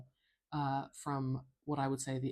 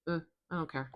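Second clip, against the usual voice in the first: noncommittal; 2 semitones higher, much faster than usual. Acted. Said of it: "It's a nothing sound. It's almost like".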